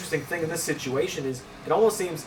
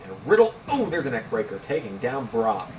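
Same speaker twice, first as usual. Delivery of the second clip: wrestling commentator; 2 semitones lower than usual. Real, not acted. Calling a sudden wrestling move.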